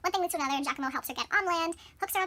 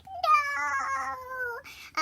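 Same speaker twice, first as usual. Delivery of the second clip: long, high drawn-out mock wail; melodramatic wail; 10 semitones higher than usual. Thumbelina learns the prince is dead, melodramatic wail. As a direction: hold the no up high in hammed-up grief.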